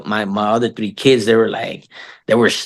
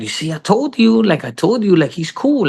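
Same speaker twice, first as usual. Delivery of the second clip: told-you-so; 8 semitones higher than usual. Retold or imitated. Acts his reply to his son.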